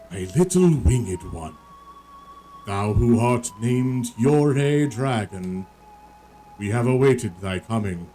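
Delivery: slow, solemn ancient dragon. Acted. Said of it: "Dragon voice".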